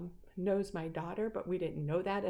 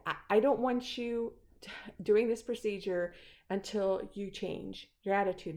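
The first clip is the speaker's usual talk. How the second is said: firm confrontation; 3 dB louder than usual. Retold or imitated. Patient to Nick before the procedure, firm. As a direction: lay down a condition, retelling it.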